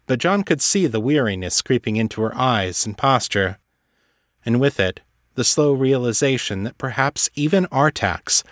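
measured, even storytelling voice; story narration. A narrator's reading. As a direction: narrate the scene in an unhurried, composed read.

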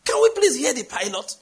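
high, exasperated call over the noise; shouted plea. Retold or imitated. Passenger to screaming prayer warriors, shouted plea. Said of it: "I shouted".

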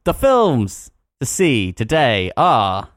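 slow, spaced-out recorded-message voice; hammed-up automated cinema line; automated cinema phone voice. Shown as a demonstration. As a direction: cinema phone announcer, pauses between each phrase. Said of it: "Do your best one".

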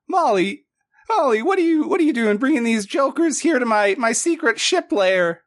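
high squeaky otter voice, indignant; gruff otter shipwright. Acted. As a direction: squeak it out like a fussy old otter.

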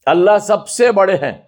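अल्लाह सबसे बड़े हैं, ज़ोर से धीरे-धीरे; slow Hindi declaration. Shown as a demonstration. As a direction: call it out slowly in Hindi. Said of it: "same thing in two languages".

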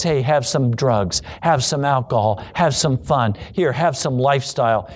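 lightly voiced tempter, pitched low; Baal. False god tempting people when things go fine, low casual offer. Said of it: "Then Baal says".

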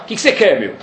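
impatient, brusque retort; sarcastic. Shown as a demonstration. Hillel answering the man at the door, sarcastic. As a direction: snap it back like he's being bothered. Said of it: "Só que no Talmud não tá escrito isso".

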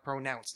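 "pronounced" with a long O in pro; "pronounced" with the first vowel as oh; wrong pronunciation. Shown as a demonstration. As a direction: say "pronounced" as PRO-nounced, with a full O. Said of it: "There's no O".

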